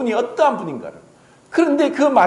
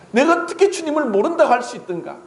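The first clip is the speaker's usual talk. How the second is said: anguished lament; 8 semitones higher, faster than usual. Acted. Peter laments his denial.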